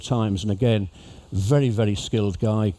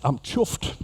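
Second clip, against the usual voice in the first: Scouse accent; 3 semitones higher than usual. Shown as a demonstration. Teaching cruise passengers a local phrase in Scouse accent. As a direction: demonstrate Scouse pronunciation. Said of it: "if somebody in Liverpool says".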